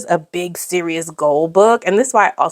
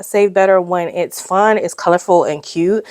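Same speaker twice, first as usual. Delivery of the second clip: ordinary delivery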